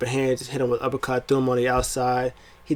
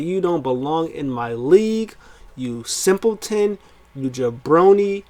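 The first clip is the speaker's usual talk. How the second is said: cocky heel taunt; 4 semitones higher than usual. Retold or imitated. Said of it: "Roman played cocky heels".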